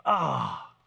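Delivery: mock groan of disgust. Jesus imagined scolding Peter, mock disgusted groan. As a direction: exhale a scornful "ah". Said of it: "in disgust".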